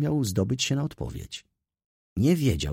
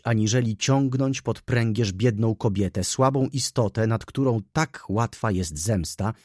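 gniew; 2 semitones higher than usual. Acted. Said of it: "wybuchnęła gniewem".

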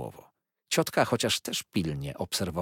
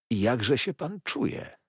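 slow, higher, solicitous ask; caring question; 6 semitones higher, slower than usual. A narrator's reading. Mr Dick asks Micawber how he is, slowly and caringly. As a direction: lean in and ask with concern. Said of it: "pytał pan Dick troskliwie".

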